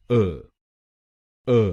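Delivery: अ as a short neutral uh sound; syllable demo. Shown as a demonstration. Teacher isolates the first syllable for students, slow demo. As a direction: say the short "uh" slowly and alone. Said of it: "ए हम बोलेंगे".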